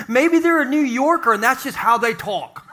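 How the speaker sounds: put-on half-hearted New Yorker accent; poorly faked New York accent; bad New York accent. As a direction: put on a rough attempt at New York talk.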